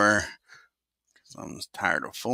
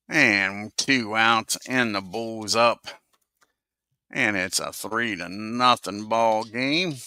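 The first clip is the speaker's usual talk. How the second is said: play-by-play call. Acted. Calls the game play-by-play.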